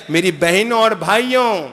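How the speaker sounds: ordinary talk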